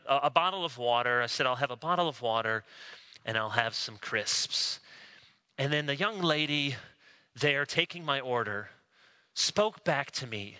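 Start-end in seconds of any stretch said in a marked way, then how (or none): 1.5-4.8 fake British accent. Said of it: "I fake a British accent".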